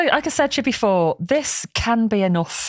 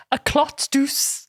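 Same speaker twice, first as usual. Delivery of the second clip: slow, higher, careful German-style reading; German-style pronunciation; 5 semitones higher, much slower than usual. Shown as a demonstration. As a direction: sound out the foreign words as if German. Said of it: "pronouncing them as if they're German".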